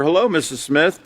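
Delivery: measured, polite hello to a teacher; formal respectful greeting. Shown as a demonstration. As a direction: address an adult with careful respect. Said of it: "Using more formal language".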